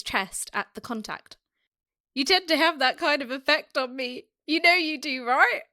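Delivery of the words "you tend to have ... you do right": badly faked American accent. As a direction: try a hammed-up American voice. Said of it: "You went from an American accent".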